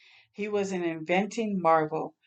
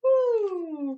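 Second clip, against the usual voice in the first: whoop; 12 semitones higher than usual. Real, not acted. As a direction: cheer it out. Celebratory whoop.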